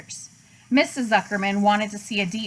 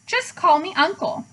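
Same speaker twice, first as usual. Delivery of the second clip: big hearty voice; 7 semitones higher than usual. A narrator's reading. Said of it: "he said in a big, hearty voice".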